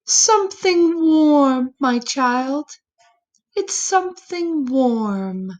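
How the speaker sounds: a hint of an old woman, fond and kindly; organ lady's answer. Organ lady answering the boy, lightly voiced old woman.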